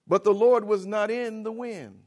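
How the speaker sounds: fiery preaching. Acted. Preacher proclaiming scripture to the congregation, high and loud. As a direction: proclaim it over the crowd.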